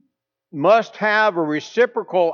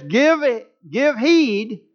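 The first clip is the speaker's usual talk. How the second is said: commanding, higher pitch; with authority; 5 semitones higher, slower than usual. Retold or imitated. God commanding the world, with authority. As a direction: say it like an order from above. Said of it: "is spoken with authority".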